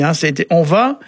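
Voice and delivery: normal talking voice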